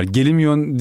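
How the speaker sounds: drawn-out Aegean "gelimiyon"; slow regional Aegean "gelimiyon"; Aegean dialect. Shown as a demonstration. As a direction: show the Aegean "gelimiyon" slowly, as one word. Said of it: "bizim orada gelimiyon derler".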